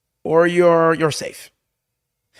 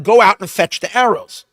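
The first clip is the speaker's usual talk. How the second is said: mock call across the field, louder; retold yell; 5 semitones higher, 5 dB louder than usual. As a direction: call the order out to the lad. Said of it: "I'm gonna yell to him".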